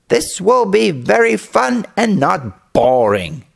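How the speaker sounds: a hint of a boy plotting fun; scheming boy. Boy thinks up his trick.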